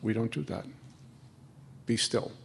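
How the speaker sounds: soft, low, steady voice of guidance; gentle inner voice, low and soft; calm inner voice. Retold or imitated. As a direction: say it as a quiet voice settling you. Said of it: "the voice will go".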